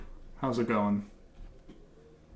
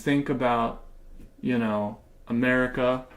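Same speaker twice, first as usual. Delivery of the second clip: mock patriotic pandering. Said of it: "I'm gonna keep talking like this".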